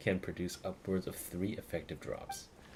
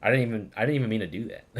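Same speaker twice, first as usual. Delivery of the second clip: laughing; 3 semitones higher, 8 dB louder, much faster than usual. Real, not acted. Laughing at own clumsy mistake.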